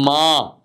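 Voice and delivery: "ما" as an isolated, held ma; syllable model. Shown as a demonstration. Teacher drills M endings, "ما" held as a clear ma. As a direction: sound out "ما" on its own, long a. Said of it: "هنا تبقى ايه؟".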